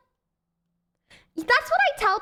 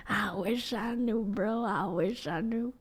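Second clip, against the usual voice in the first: lower, softer, trailing off; resigned mutter; 5 semitones lower, 7 dB quieter than usual. Retold or imitated. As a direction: let it sink away like giving up. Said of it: "and I'm just like".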